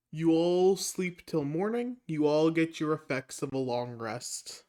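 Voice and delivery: slow, soft, measured delivery; game master's scene-closing narration. Acted. Game master granting the party a long rest, slow and soft. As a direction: slowly ease the players into the night.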